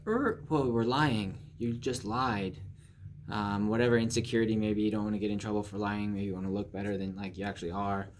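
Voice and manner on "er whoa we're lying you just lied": startled inner voice. Pretend. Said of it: "your higher self is like".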